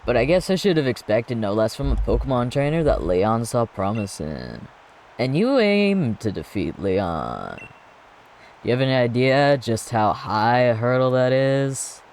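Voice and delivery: cocky rival, lightly voiced; gym leader voice. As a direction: taunt the challenger like a proud champion.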